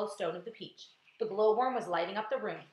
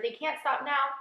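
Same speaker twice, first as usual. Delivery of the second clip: insistent raised reply; 6 semitones higher, 5 dB louder than usual. A narrator's reading. James insisting the spinners continue.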